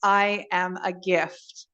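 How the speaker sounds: slow, measured affirmation; say out loud. Shown as a demonstration. Guide has listeners say it out loud, slow and deliberate. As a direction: state it slowly, giving each word room. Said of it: "just say out loud".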